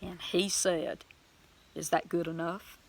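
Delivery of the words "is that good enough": soft, gentle question; sweet, gentle. Retold or imitated. God asking a believer after a miracle, gentle. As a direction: ask it tenderly and softly. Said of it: "Just a sweet, gentle voice".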